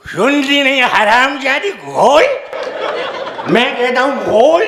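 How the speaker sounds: put-on drunk yelling. Drunk husband yelling at wife.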